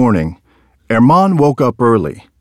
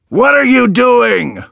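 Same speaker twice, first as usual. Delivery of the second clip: angry yell; 12 semitones higher than usual. A narrator's reading. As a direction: bellow up at the boy. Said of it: "yelled the man".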